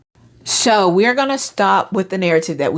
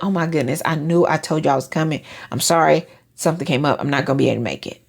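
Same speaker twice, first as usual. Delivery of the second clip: apologetic, sincere; 3 semitones lower, faster than usual. Retold or imitated. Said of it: "Just be like".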